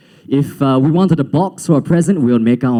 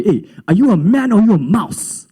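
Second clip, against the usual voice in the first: imitated bully, pitched up; mock a bully's jeering challenge; taunting school bully; 6 semitones higher than usual. Bully to the new boy with an accent, taunting.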